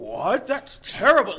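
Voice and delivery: very loud, high-pitched, offended blurted outburst. Retelling a comic scene where Captain America visits: imitating J. Jonah Jameson, super offended. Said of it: "he's super offended".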